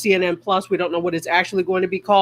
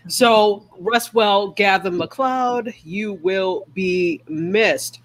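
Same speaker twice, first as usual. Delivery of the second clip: solemn farewell; much slower than usual. Real, not acted. Solemn farewell to Gavin MacLeod.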